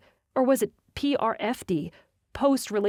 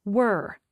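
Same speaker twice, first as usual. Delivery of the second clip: were hit firmly and cut short; stressed were; 3 dB louder than usual. Acted. Natalie correcting Jensen, hitting were hard. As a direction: lean hard on the word were. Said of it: "I said with emphasis".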